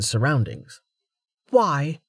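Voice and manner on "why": cold. Acted. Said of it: "tone suddenly colder".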